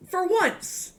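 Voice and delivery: high, loud exclaimed text; exclamatory. Retold or imitated. Texting a friend back to clarify, high loud exclaiming. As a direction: punch it out high with an exclamation point. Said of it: "Exclamation point".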